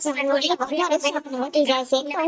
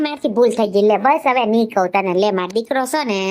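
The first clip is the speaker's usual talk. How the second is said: lower, louder coaxing apology; placating apology; 7 semitones lower, 4 dB louder than usual. Acted. In-law apologising so the daughter-in-law won't leave, placating. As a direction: insist on making up, in a lowered voice.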